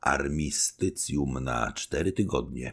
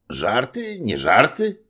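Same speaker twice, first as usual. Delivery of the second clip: higher, louder rising disbelief; incredulous question; 10 semitones higher, 8 dB louder, slower than usual. A narrator's reading. Officers can't believe the bishop, incredulous. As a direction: ask as if it must be a joke. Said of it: "spytało kilka głosów".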